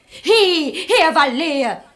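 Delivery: loud high call after him. Acted. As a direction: call him back across the room.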